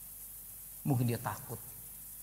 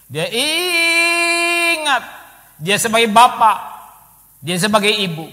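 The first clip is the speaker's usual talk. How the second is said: loud, high, very slow drawn-out cry; preaching at full force; 12 semitones higher, 16 dB louder, slower than usual. Acted. Preacher exclaiming God's care to the church. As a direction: stretch out ingat, then boom.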